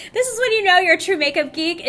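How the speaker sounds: loud, high and gushing; excited. Real, not acted. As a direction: gush like a true fan. Excited exclamation after laughing.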